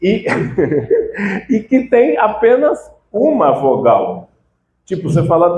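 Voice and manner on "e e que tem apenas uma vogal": tag. Real, not acted. Amused by the absurd word.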